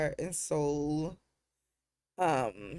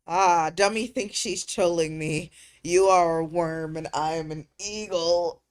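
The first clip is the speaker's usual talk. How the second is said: mock taunt; 7 dB louder than usual. Mock-taunting a chat troll.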